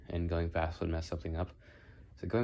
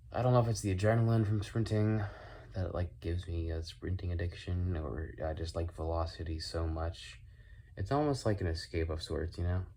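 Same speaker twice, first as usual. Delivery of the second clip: whistling s. Real, not acted. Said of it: "sorry if my, um, whistling S's".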